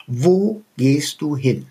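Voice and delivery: Wo gehst du hin slowed and drawn out like a patronising quiz; slow, overdone quizzing daughter; exaggerated repeat of the question. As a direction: repeat it slowly, as if to a child. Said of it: "Mutter, ich wiederhole nochmal".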